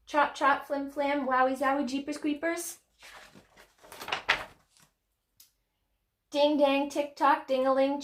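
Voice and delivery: high, even chant of word pairs; rhythmic refrain. Acted. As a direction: chant it like a bouncy schoolyard refrain.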